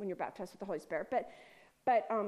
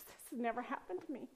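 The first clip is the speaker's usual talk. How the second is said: unvoiced whisper, softer; awed whisper; 7 dB quieter than usual. Woman hugging Karen, telling her in an awed whisper. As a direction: hush it like a secret wonder.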